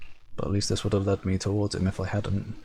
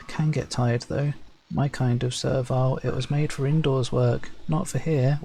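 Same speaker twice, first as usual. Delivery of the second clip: lightly voiced servant admitting fatigue; weary Servile farmer; 4 semitones higher than usual. Servile farmer admitting to the Shaper he tires, lightly voiced.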